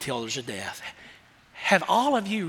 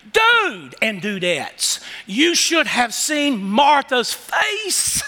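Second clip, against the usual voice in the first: excited aside; 2 semitones higher, much slower than usual. Pretend. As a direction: draw it out like you're letting them in on it. Preacher voicing John's aside.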